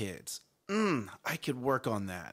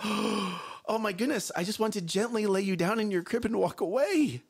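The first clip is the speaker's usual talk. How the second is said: higher, overwhelmed outburst after a gasp; exasperated parent; 5 semitones higher than usual. Acted. Stressed parent wanting to walk away, acted exasperation. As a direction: let the pent-up exasperation out.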